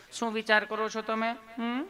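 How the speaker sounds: put-on coaxing nurse voice; sweet, loving nurse. Nurse asking the patient his thoughts, sweetly. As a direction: ask lovingly with a little hum after. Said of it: "તમે કેટલું પ્રેમથી પૂછો છો".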